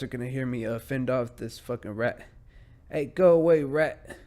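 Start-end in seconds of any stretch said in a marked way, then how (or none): 2.9-4.2 higher, louder shoo; shooing shout. Real, not acted. Podcaster shooing a rat, louder and higher.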